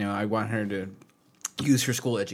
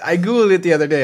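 louder indignant repeat; 7 semitones higher, 11 dB louder than usual. Real, not acted.

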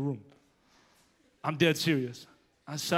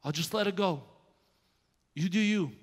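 God speaking; 5 dB quieter than usual. Retold or imitated. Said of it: "He said".

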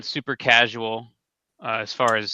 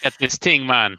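put-on Jamaican accent. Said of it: "now you're gonna have to do the whole episode in a Jamaican accent".

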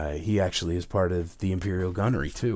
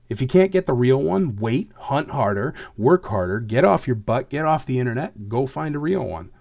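angry; 4 semitones higher, 4 dB louder than usual. Real, not acted. Ranting at fakers.

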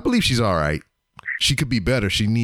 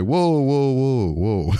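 mock alarm; 4 semitones higher, slower than usual. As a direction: play up the panic of the story. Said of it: "I was like".

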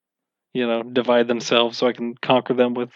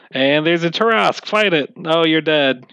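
blunt DM voice; 4 semitones higher than usual. Retold or imitated. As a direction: toss it off like a lazy DM. DM mocking his own quick fix.

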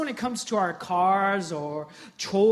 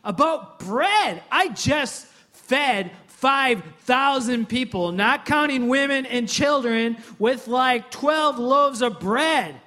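higher, louder, exasperated Jesus pleading; like a teacher fed up with his class, raised voice; 5 semitones higher, 6 dB louder than usual. Retold or imitated. Preacher voicing Jesus scolding the disciples, exasperated and raised. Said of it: "And Jesus is like".

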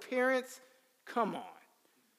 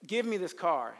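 high, loud brush-off that fades out; dismissive teen; 3 semitones higher, 7 dB louder than usual. Retold or imitated. Teenage son brushing off his father's advice, dismissive. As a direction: wave him off like a bratty kid.

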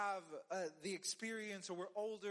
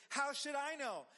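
defensive retort; 5 semitones higher, 3 dB louder than usual. Retold or imitated. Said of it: "He said".

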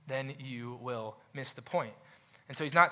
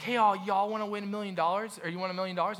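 hyped-up pitchman; 7 semitones higher, 3 dB louder than usual. Retold or imitated. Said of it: "being like".

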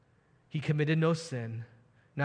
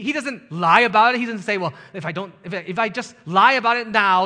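louder and higher, preaching hard; rising sermon fervour; 5 semitones higher, 6 dB louder than usual. Acted. Preacher rousing his congregation, louder and higher. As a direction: drive the questions home from the pulpit.

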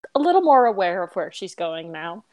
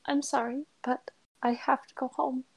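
tearful; 5 semitones higher, 5 dB quieter than usual. Acted. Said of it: "wipes at her eyes".

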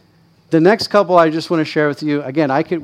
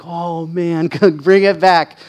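laughing regret; 4 semitones higher, 5 dB louder, slower than usual. Retold or imitated. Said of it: "and I'm like".

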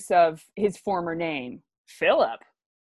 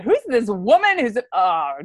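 mock puzzled surprise; 4 semitones higher, 5 dB louder than usual. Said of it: "That's just such a great moment".

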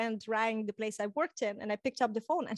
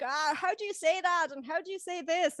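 higher-pitched imitation of groping for words; retold puzzled asking; 5 semitones higher than usual. Talking to sister and mom about forgotten language, mock puzzled. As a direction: lightly act out being stuck for a word.

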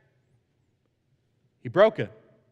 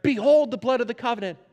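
higher, proclaiming quote; declaring; 7 semitones higher, 4 dB louder than usual. Retold or imitated. The people of Israel declaring the covenant, proclaiming. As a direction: declare it to a whole assembly. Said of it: "as the people declared".

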